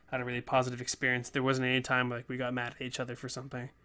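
rushed, breathless talking; running out of air while talking fast; out of breath. Real, not acted. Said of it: "I'm out of breath".

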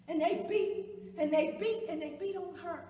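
loud, hammering repetition; anguished emphasis. Acted. Witness telling how they beat the next lady, loud anguish. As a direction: land each repeat like a blow. Reliving another woman's beating.

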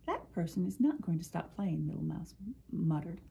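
put-on reading a picture book aloud to children; story narration. A narrator's reading. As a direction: tell it gently to little listeners.

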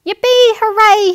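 high, loud yippee; cheering. Pretend. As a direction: cheer it out like a happy child. Teddy found, cheering.

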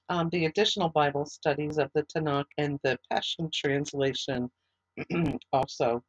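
hoarse, fading voice; strained hoarse voice, losing it. Real, not acted. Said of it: "Sorry, I'm losing my voice here".

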